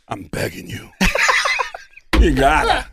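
a light Walken voice, pleading; Christopher Walken impression. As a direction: beg in a lightly done Walken voice. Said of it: "do Christopher Walken asking for his target bit".

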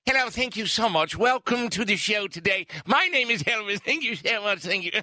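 lightly put-on British accent. Shown as a demonstration. Co-host demonstrating for Natasha, put-on British accent. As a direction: greet the audience in a playful British accent. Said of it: "Elvis's British accent".

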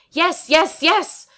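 high, loud, exasperated repeats; impatient yes. A narrator's reading. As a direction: snap it out in frustration. Impatient answer to hasty charge.

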